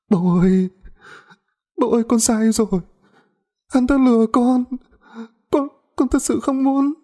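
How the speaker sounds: put-on high, desperate girl's begging; sobbing plea. A narrator's reading. Kneeling daughter begs her father, high and desperate. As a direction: beg her father through tears.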